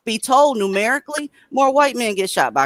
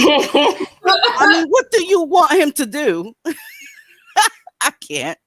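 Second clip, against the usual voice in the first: laughing; 10 semitones higher, 4 dB louder, slower than usual. Real, not acted. Laughing at own joke.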